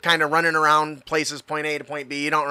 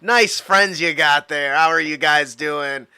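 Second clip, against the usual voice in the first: stoner voice. Acted. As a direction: introduce yourself as a mellow stoner. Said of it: "I gotta put on my stoner voice".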